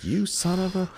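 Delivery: high-pitched indignant outburst, retold; outraged wife. Retold wife's outrage at cheating husband.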